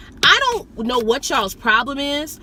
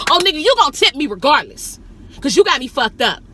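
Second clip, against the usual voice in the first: indignant retort; 4 semitones higher, 5 dB louder than usual. Retold or imitated. Indignant retort to a tip offer.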